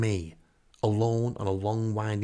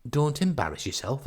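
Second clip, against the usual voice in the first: lightly voiced woman on the phone, pitched higher; gently higher-pitched caller's plea; Tracy; 6 semitones higher than usual. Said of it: "Anyway, she says".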